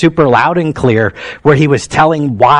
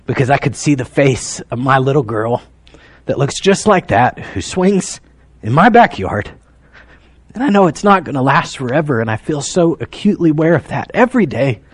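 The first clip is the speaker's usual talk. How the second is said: choked up; 3 dB quieter than usual. Real, not acted. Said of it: "I don't know why I'm this emotional".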